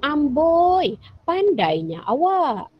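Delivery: a high, impressed "Amboi" drawn out slowly; kagum. Shown as a demonstration. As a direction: praise a friend who solved it. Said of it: "kita pun kagum dengan dia". (kagum dengan rakan, perlahan)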